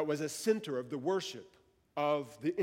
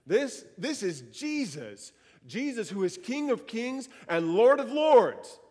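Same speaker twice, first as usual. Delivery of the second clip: slow start building to a louder, higher proclamation; preaching proclamation; 4 semitones higher, 4 dB louder than usual. Real, not acted. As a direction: declare it to the congregation, building up. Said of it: "how could this room stay silent when we say that".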